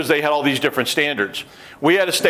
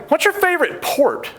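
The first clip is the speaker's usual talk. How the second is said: interviewer question. Retold or imitated. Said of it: "And then I ask them".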